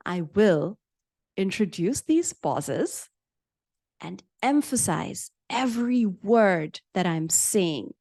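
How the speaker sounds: slowed right down, every word emphasized with pauses between. Shown as a demonstration. Teacher demoing pauses to the class, slow and deliberate. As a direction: lean on each word and let the gaps land. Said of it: "the pauses are working hand in hand with my change of pace".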